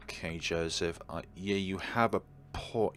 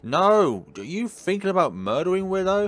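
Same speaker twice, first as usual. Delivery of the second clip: loud, much higher alarmed cry; alarmed shout; 10 semitones higher, 6 dB louder than usual. Real, not acted. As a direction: react in shock, loud and high. Player alarmed at murder plan.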